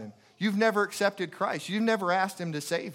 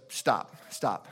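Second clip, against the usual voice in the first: low, firm imitation of an angry friend; retold angry; 6 semitones lower than usual. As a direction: cut the visitor off with mild, low-voiced anger. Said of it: "she's getting angry".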